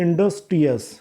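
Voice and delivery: इंडस्ट्रियस broken in two, "indus" then "trius"; split into sounds. Shown as a demonstration. Teacher showing the two sounds in a word, इंडस्ट्रियस split after "indus". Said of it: "दो sound आ गए".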